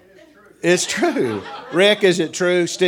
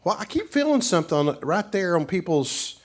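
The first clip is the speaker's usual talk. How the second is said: lightly voiced puzzled woman, pitched higher; imitated visiting preacher; 5 semitones higher than usual. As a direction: lift the voice to mimic her. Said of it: "and she's like".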